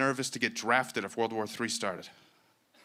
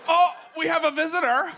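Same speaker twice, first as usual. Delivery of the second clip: much higher, loud mock posh English voice; posh English crowd; 7 dB louder than usual. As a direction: ham up a delighted posh Brit. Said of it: "You're like".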